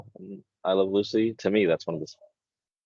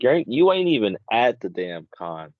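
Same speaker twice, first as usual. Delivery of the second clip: louder, higher, fed up; exasperated retort; 4 semitones higher, 6 dB louder than usual. Retold or imitated. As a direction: snap at them to knock it off. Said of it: "I'm like".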